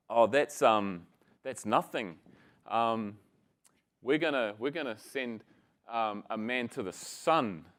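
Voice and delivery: put-on mildly hesitant, low little-boy bluff; insecure. Kiwi boy topping Texan's moon boast, hesitant and insecure. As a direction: stumble through it with a touch of self-doubt.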